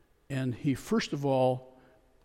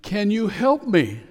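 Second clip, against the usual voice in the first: high, louder desperate plea; pleading; 7 semitones higher, 6 dB louder than usual. Retold or imitated. Tourist begging the voice above, pleading. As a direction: beg for rescue. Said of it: "The tourist pleaded".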